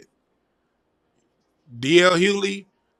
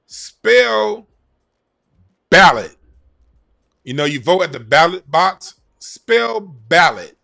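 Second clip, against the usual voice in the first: slow loud quizmaster; 3 semitones higher, 6 dB louder, slower than usual. Pretend. Quiz host, third word.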